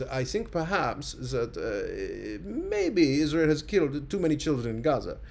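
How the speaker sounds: halting, put-on German accent; a mock German chancellor, hedging each word in a German accent. Imitating the German chancellor's careful apology in a German accent. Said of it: "thank you for the chef's kiss accent".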